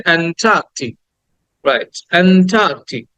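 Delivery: "অ্যান্টার্কটিক" with drawn-out "টা"; long vowel, no r. Shown as a demonstration. Teacher having students repeat along, long "টা". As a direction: stretch "টা" and drop the r in "অ্যান্টার্কটিক". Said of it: "বলো আমার সাথে".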